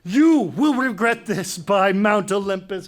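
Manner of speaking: loud, slow, deliberate threat; furious oath. Acted. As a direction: swear it with menace. King swears vengeance.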